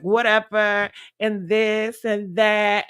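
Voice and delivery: casual, drawn-out relaxed talk; too relaxed. Shown as a demonstration. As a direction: stretch it out lazily, showing your too-relaxed self. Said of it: "and I'm talking like this".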